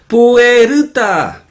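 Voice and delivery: mock Asian accent, "Puerta" as loud, high pu-e-ru-ta. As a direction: imitate Asian speakers stretching "Puerta" into four syllables. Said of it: "la pronuncian como cuatro sílabas". (acento asiático imitado, pu-e-ru-ta)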